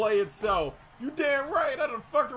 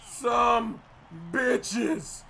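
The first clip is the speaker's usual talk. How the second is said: furious rant; 3 semitones higher than usual. Real, not acted. Gamer cursing out Kansas City after a play, furious rant. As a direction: rant in a rage, landing hard on each insult. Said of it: "I've never been so mad".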